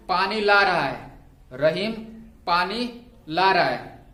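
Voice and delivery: slow, measured dictation with pauses between phrases; classroom dictation. Real, not acted. Teacher dictating homework sentences for students to write, measured dictation. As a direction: dictate each phrase deliberately for note-takers.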